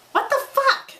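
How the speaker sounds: real shock at what she reads; stunned disbelief. Real, not acted. Reader reacting to the fanfic, stunned squeal.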